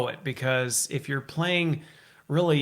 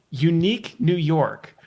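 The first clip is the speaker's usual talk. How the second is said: slowly and carefully; slow tongue twister demo; slower than usual. Shown as a demonstration. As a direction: spell it out for the guest, slowly. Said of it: "you gotta say it five times".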